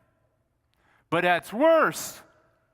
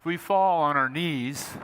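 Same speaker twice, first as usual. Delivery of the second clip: slow, solemn recital, not sung; slow reverent reading of a hymn; recited hymn line; slower than usual. Shown as a demonstration. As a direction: lean slowly into each word of the carol. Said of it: "I'm not gonna sing it 'cause it's too high".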